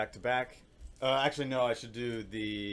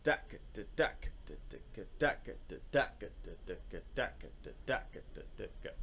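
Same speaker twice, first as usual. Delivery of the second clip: "deck" punched, "de-" whispered; rhythmic "deck" and soft unvoiced "de-"; vocalized accent pattern; 4 dB quieter than usual. Shown as a demonstration. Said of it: "if I were gonna do a pattern like".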